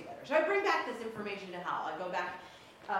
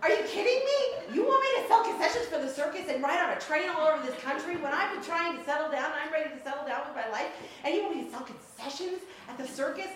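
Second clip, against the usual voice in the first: high, loud disbelief; exasperated outburst; 8 semitones higher, 6 dB louder than usual. Retold or imitated. Hal objecting to selling concessions, loud and incredulous. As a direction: hit kidding with outrage. Hal protesting the circus plan.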